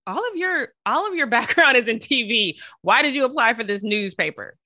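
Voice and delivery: high, far voice for the managing editor; quoting the editor. Retold or imitated. Managing editor asking why he applied, high and puzzled. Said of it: "she was like".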